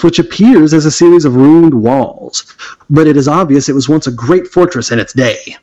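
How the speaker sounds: steady read-aloud scene setting; game master's scene setting; adventure narration. Acted. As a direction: paint the castle scene for the players. Reads adventure text.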